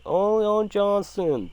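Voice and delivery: high, slow cat yowl shaped into words; talking cat impression. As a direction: imitate a cat trying to talk, drawn out. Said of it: "like, the cat saying".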